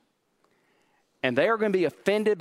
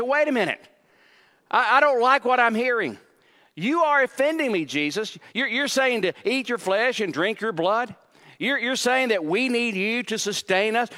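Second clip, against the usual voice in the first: mildly indignant, higher-pitched protest; offended follower; 4 semitones higher than usual. Acted. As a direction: push back at the teacher, pitch raised in disbelief. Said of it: "They were offended".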